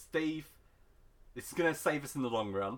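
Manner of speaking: usual speaking voice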